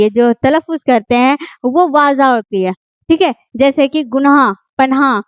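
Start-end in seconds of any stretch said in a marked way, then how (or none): 4.0-5.2 गुनाह and पनाह with an audible "h"; "gunaah, panaah", the ha fully pronounced; clearly sounded final h. Shown as a demonstration. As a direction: let the "h" be heard in गुनाह, पनाह. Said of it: "हा जाहिर होता है अच्छे तरीके से".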